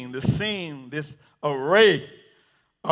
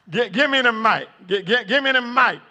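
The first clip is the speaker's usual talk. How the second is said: too excited to get the words out; stammering eagerly; 4 semitones higher than usual. Acted. Peter begs for the mic, stammering with eagerness. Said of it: "I see Peter say".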